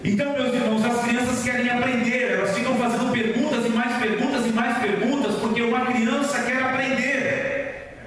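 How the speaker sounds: high-pitched, driving sermon delivery; impassioned preaching. Real, not acted. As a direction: preach it insistently, piling up each reason. Prega com veemência à igreja. (pregação veemente)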